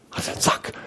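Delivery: a quick whispered "zack" with no voice. Shown as a demonstration. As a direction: breathe out "zack" like a sudden touch. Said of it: "Also so".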